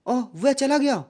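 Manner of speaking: mild demo exclamation; surprised. Shown as a demonstration. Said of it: "ये विस्मयादि बोध हो गया".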